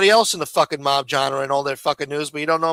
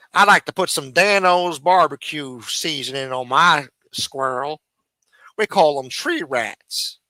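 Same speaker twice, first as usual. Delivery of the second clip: lightly voiced hick cooking host; a hint of a folksy TV chef; mock cooking show host. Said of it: "should have a cooking show".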